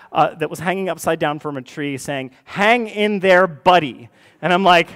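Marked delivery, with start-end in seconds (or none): 2.4-4.1 lightly hammed-up motivational slogan, slow and high on "hang"; drawn-out, high mock pep talk; cat poster slogan. Dentist's cat poster cheering on the patient, lightly hammed-up.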